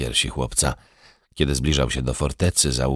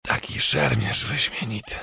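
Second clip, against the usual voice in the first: soft, higher, hushed admiring words; said quietly; 6 semitones higher, 5 dB quieter than usual. A narrator's reading. Dying prince to the hussar, softly. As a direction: breathe it out softly with a faint smile. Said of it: "Powiedział cicho".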